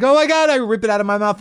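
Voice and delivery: very high, loud shriek of alarm; panicked shriek. Retold or imitated. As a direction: shriek it in horror. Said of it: "And I'm like".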